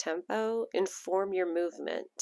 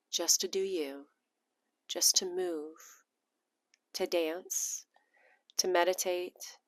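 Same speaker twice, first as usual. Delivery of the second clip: ASMR voice. Shown as a demonstration. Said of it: "sexy little A S M R voice".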